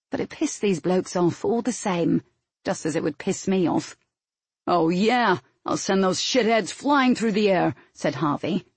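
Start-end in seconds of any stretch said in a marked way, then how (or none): 4.7-7.7 cocky recruit. A narrator's reading. Recruit boasts of revenge on squads.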